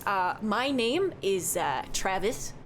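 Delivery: lightly voiced chatty Midwestern barkeep; cheerful innkeeper who says don't you know; folksy bartender. Bartender introduces himself.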